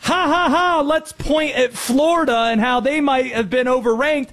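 high, spelled-out mock laugh; mock jeering. Host voicing the reaction fans didn't have to Florida losing, mock jeering. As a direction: mimic a crowd gleefully pointing at a loser. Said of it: "and the reaction isn't".

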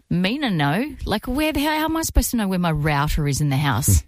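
exasperated quote. Retold or imitated. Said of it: "I'm like".

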